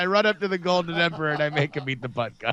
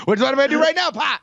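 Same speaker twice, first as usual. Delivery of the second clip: sudden burst; 7 semitones higher, 5 dB louder, much faster than usual. Acted. Sudden gunshot punchline.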